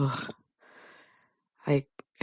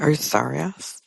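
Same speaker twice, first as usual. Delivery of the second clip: mocking Robin; 3 semitones higher than usual. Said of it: "Robin saying".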